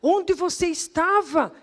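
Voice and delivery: high, slow, emphatic demand; astonished reproach. Retold or imitated. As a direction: imitate an amazed man, stretching each word. Cobrança encenada do homem. (cobrança espantada, aguda e pausada)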